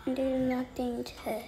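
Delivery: soft whispered advice. Real, not acted. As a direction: murmur so the birds stay calm.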